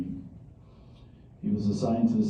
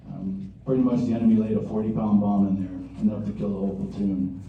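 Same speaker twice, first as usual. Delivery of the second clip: Marine voice. Real, not acted. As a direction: project to the back of the room. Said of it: "Then I'll use my Marine voice".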